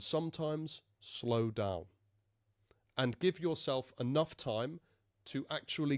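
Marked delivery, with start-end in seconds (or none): 0.0-1.8 slow down on "slow down". Shown as a demonstration. Coach showing learners how to vary pace, slowing down. Pacing shown while explaining it.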